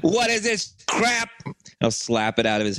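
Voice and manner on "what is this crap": higher, slow, scornful bully voice; mock tough boss. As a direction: sneer at the cheap soda. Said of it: "I'll go, like".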